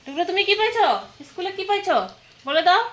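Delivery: high, loud, singled-out questioning; coaxing a little one. Real, not acted. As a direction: pitch it up to coax an answer from a little one. (ছোট্ট কাউকে উঁচু গলায় আদুরে প্রশ্ন)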